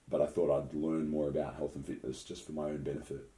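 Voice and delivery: speaking while choking; choking on a drink mid-sentence. Real, not acted. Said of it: "Sorry, I'm choking here".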